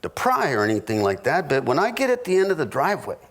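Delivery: lightly voiced nervous husband asking directions; careful husband. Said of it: "I go".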